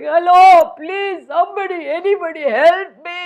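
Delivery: trapped lion calling for anyone to help; screaming for help. Retold or imitated. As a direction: cry out trapped in the net. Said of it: "I was screaming".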